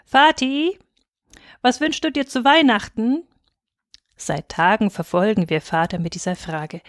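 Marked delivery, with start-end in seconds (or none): 0.1-3.2 put-on high childlike plea; child pestering. A narrator's reading. Children begging their father for a wish. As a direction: ask like an eager little girl.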